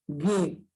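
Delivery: "Gue" as hard G straight into E; silent U. Shown as a demonstration. Teacher shows aguerrido's silent U with a lone "Gue". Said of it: "No se pronuncia la U".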